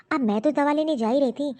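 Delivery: wife defiantly defending herself to her husband; defiant excuse. Acted. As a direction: throw the excuse back at him.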